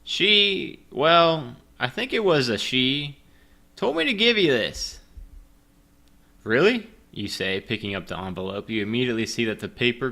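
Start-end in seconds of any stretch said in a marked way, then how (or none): 0.0-5.0 high librarian voice. Acted. 6.4-6.9 surprised. Acted. Hero asks in story.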